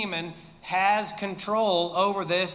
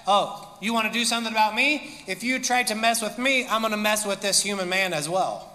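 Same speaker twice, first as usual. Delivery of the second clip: smack talk; faster than usual. Acted. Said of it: "smack talking back to Jesus".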